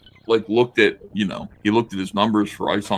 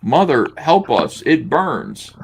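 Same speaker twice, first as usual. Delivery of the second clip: mock plea; 4 semitones higher, 5 dB louder, slower than usual. Rereading heroine's plea, slower.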